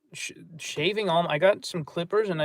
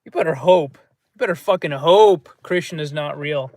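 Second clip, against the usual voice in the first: louder, heated retelling of blowing up at a friend; retold angry threat; 6 dB louder than usual. Telling T K off about Krishna, a loud angry threat. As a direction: snap it at him like you've lost your temper. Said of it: "I was in such a bad mood the other day".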